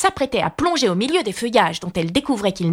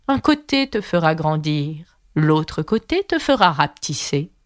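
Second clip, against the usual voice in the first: caterpillar voice; 5 semitones lower, slower than usual. Acted. Caterpillar's parting words.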